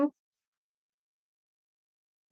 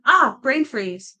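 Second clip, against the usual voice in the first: brain freeze; 5 semitones higher, 7 dB louder, much slower than usual. Pretend.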